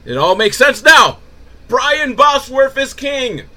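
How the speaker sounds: loud, high triumphant proclamation; mock eureka. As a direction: announce it like a grand discovery. Joke revelation about B B's name.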